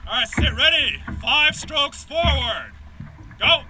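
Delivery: loud, slow counted call; shouted commands. Real, not acted. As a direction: call the strokes out to the crew. Coxswain calling paddle commands.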